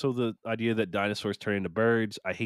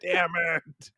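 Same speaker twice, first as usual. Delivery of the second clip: higher, cursing through a laugh; laughing curse; 6 semitones higher than usual. Retold or imitated. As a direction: laugh at your own mistake. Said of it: "I was like".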